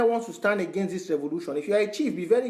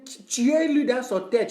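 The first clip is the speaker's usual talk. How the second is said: slow, higher put-on soldier voice; mock French soldier, slow and raised; quoted soldier in French; 4 semitones higher, slower than usual. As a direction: drag out the soldier's French order. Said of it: "The, the fighter was saying".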